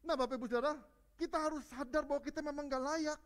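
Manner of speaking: high and loud fervent preaching; preaching at full force. Acted. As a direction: drive the point home to the whole church. Preaching climax to congregation.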